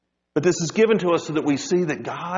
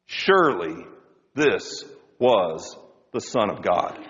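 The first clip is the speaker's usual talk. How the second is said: awed guard; 7 semitones lower, slower than usual. Acted. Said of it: "What did the guard say?".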